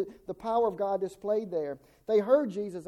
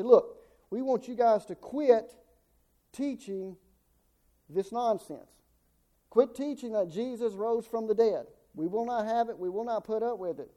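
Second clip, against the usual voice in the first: mildly exasperated, emphatic mock command; aggravated order; 2 semitones higher than usual. Religious leaders ordering Peter and John to stop, aggravated. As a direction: lay down the law as an annoyed official. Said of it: "These religious leaders were aggravated".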